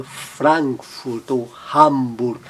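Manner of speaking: Frankfurt e Hamburg with wide open A, slowly; open A demo. Shown as a demonstration. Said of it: "mantém o som bem aberto". (A bem aberto em Frankfurt e Hamburg)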